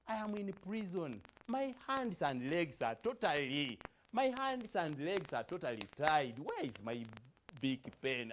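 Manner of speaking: lightly voiced prisoner hunting for his pen, worried; poem recitation.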